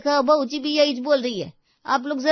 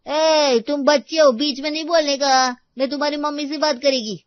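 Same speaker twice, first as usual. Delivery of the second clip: put-on high, loud shout shutting a child up; angry maid; 8 semitones higher, 11 dB louder than usual. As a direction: yell at the child to stay out of it. (चिल्लाकर डाँटती नौकरानी)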